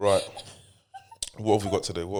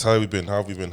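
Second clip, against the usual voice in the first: loud cheerful greeting; 3 semitones higher, 10 dB louder, faster than usual. Acted. Dad's repeated greeting, loud.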